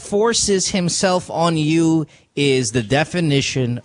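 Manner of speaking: slow emphatic. Real, not acted. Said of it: "No, I said".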